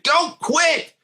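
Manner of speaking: high, urgent don't-quit cry; retold yelling. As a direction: teammate yelling at a player not to quit. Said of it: "another guy was yelling at another guy".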